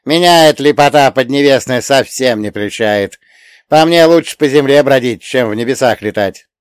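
grumbling coachman. Acted. Coachman spirit complaining.

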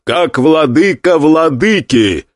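slow, loud formal verdict; loud proclamation. Acted. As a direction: pronounce the ruling with authority. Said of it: "громко произнёс Гуан Юй".

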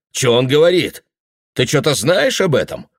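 a touch of alarm, asking his son. Acted. Father turning to his son, mildly alarmed. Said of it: "насторожился Бекман".

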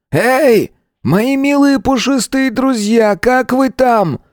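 a madman cooing mock tenderness, very slow; creepy madman. A narrator's reading. Gunman behind door taunting hostages, slow high sing-song. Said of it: "глухой голос".

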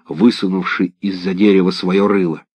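usual speaking voice

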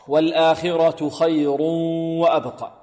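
slow recitation, ra full in والآخرة and خير; heavy ra. Shown as a demonstration. Teacher demonstrates the rule, slow recitation with heavy ra in خير. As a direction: recite slowly with heavy ra, humming خير into وأبقى. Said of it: "الراء مفتوحة والمضموم مفخمة".

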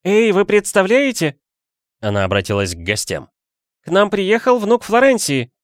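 high, loud proclamation; announcing. A narrator's reading. Aunt announcing to the guests, loud and glad. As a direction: tell the whole party the news.

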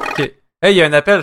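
ordinary talk, nothing marked

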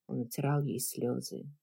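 ordinary delivery, nothing marked

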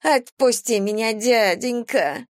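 high, slow whimper of a caught thief; whining. Acted. Thief begs the captain to let her go, high whining. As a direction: plead like a whining street thief. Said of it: "захныкала воровка".

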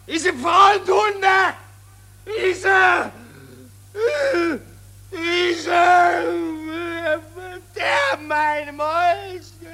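a breaking, tearful rant, slowed and shouted; hysterical ranting. Acted. General rages at traitors and hunger, half sobbing. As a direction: rage at the traitors until it chokes into sobs. General raging about the defeat.

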